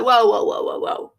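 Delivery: loud rising whoas, fading to breath; alarmed stopping him. Retold or imitated. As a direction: hold up, loud then trailing off.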